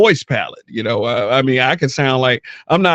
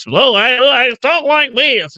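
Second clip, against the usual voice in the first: mocking, exaggerated white-guy voice, pitched way up; super white voice; 11 semitones higher than usual. Man mimics people making fun of how he talked, mock super white voice. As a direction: put on a very high caricature of a white voice. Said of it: "like, this super white voice".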